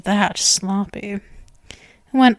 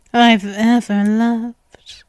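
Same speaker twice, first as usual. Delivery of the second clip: slow, hushed whisper of devotion; slower than usual. Acted. Vampire whispering her love to her human. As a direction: breathe it out slowly as a secret.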